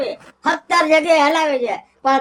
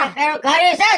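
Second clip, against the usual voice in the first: raised, insistent voice, snapping back; insistent shout. Acted. Husband shouts back at his wife in a quarrel, insistent. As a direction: shout it back to win the argument.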